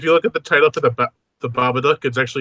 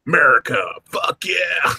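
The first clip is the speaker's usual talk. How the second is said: mock patriotic yell; patriotic shout; 3 semitones higher, slower than usual. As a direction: belt it like a proud cheer. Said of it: "going like".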